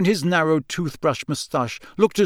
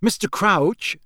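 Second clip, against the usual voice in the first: higher, breathless awe; breathless Percy; 6 semitones higher, slower than usual. A narrator's reading. Young underling addressing his idolised boss, breathless. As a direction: address your idol breathlessly. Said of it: "said Percy breathlessly".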